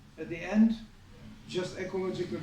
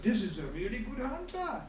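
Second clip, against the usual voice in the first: mildly acted amazement, pitch climbing; amazed; 5 semitones higher than usual. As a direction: voice rises in imitated wonder. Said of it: "so Arjuna was amazed".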